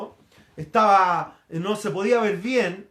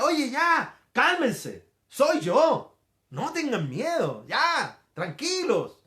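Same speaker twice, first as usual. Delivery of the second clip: lightly acted calming call, raised pitch; Jesus calming disciples; 3 semitones higher, much slower than usual. Preacher as Jesus telling frightened disciples to calm down, calming. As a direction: settle them down, urgent then easing. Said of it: "Pero Jesús les dijo enseguida".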